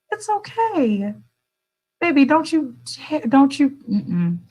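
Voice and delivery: high, slow mock-scolding; teasing scold. Playfully scolding viewers, high and drawn out. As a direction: wag a finger with your voice, up high.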